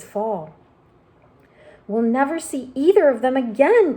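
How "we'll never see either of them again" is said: a higher, louder wail of loss; despairing cry. Acted. Ladybug lamenting the lost boy and centipede, wailing. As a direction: cry out that they are gone. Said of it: "cried the ladybug".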